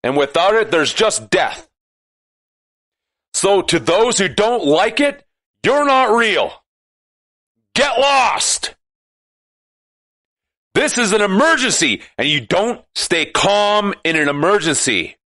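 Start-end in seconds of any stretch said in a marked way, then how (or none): 3.3-12.0 building to a shout. Real, not acted. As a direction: start firm, end shouting Get lost. Ranting, building to telling off.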